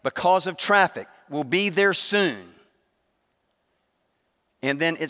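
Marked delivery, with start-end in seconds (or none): 0.0-2.5 dictating. Retold or imitated. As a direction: spell it out for the voice assistant. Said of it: "I said".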